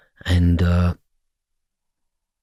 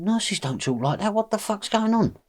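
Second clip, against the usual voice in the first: high, hushed incredulous aside; quietly appalled, pitch climbing; retold stunned question under the breath; baffled disbelief; 12 semitones higher, 6 dB quieter than usual. Retells baffled aside to brother.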